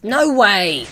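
loud, high cry falling away; high, very loud protest; real disbelieving shout. Real, not acted. Disbelief at failing in game.

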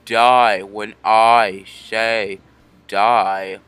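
slow, outraged demand; shaking with anger. Real, not acted. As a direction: drag out each word in fury. Rival refuses to die.

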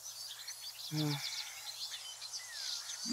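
soft, drawn-out sigh; long sigh. Real, not acted. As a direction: let out a long quiet breath. Dwarves ignore his orders.

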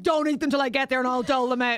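loud imitation of a bossy friend; imitated loud instruction; Helen. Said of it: "I genuinely have a very good Helen".

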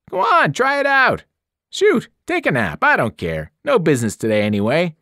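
a loud, high hard sell; pushy salesman. A narrator's reading. Shop owner loudly pushing kids onto the bed.

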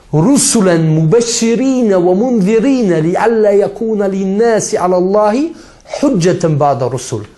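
chanted Arabic verse; Quran recitation. Acted. Preacher quoting the Quran to his audience, chanted recitation. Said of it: "Was sagt Allah im Koran?".

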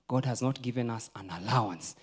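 ordinary talk

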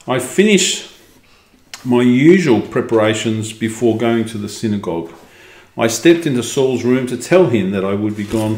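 measured, expressive storybook reading; story narration. A narrator's reading. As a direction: read it out as a first-person tale. Reads the story aloud.

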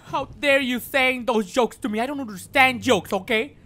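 mock outrage. Streamer pretending to be offended by a chat joke, mock angry. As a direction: play at being offended by the joke.

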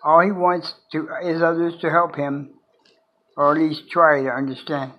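measured recital with long pauses between lines; poem reading. Acted. Sharing own poem The Drifter with viewers, poem reading.

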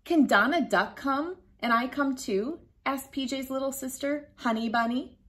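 lively storybook read-aloud; reading to children. A narrator's reading. Teacher reading a picture book to children, lively storytime voice. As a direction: read it like storytime for little kids.

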